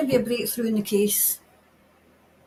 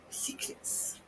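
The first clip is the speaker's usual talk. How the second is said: breathy hushed whisper; 18 dB quieter than usual. Real, not acted. Medium repeats word in whisper.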